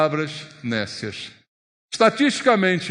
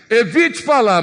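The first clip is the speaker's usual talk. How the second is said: louder, higher punch on falar; emphatic command; 6 semitones higher, 7 dB louder than usual. Shown as a demonstration. Preacher warns the church against talking: loud, emphatic. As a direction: bark the warning. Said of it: "Resumidamente, é isso que ele fala".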